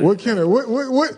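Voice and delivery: high, startled "what, what"; can't believe what he hears; surprised. Real, not acted. Stunned by the ring story.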